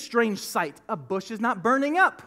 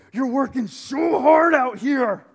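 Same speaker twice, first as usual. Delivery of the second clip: loud, slow, drawn-out preaching shout; preacher shouting over the congregation; 6 dB louder, slower than usual. Acted. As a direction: belt it out to the crowd, slowly. Preaching peak, shout heard.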